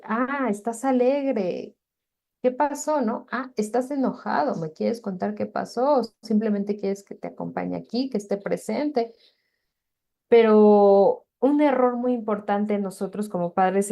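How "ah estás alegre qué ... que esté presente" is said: validating parent. Shown as a demonstration.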